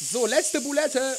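drawn-out announcement. Real, not acted. Announcing last patty.

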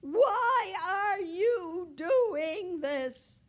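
loud, high cat wail building to a long howl; escalating high-pitched yowl; yowling protest. A narrator's reading. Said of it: "she yowled".

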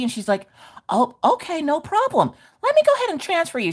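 breezy helpful phone voice; mock sweet receptionist.

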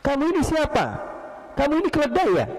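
high, accusing questions, imitated; indignant yelling. Man trodden on challenges the stranger, indignant high questioning. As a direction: act out a man crossly demanding an answer. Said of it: "Teriak dia".

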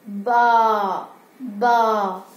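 low bleating baa for the class; imitated sheep bleat. Shown as a demonstration. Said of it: "how it sounds?".

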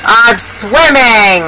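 slow, stretched-out cry of wonder; amazed exclamation. Real, not acted. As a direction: draw out swimming in amazement. Keeps exclaiming at swimming glitch.

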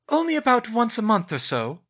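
dry answer in a high, loud character voice; deadpan. A narrator's reading. Girl to her father after the fire, deadpan. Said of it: "Hermione deadpanned".

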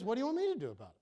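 blunt, put-out challenge; mildly exasperated retort; what do you want. Acted. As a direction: toss the problem back at her. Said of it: "what he's actually saying is".

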